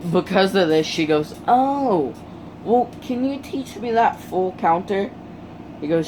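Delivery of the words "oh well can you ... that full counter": lightly voiced girl, higher-pitched; eager request. Uraraka asking Deku to teach her, lightly acted eager request.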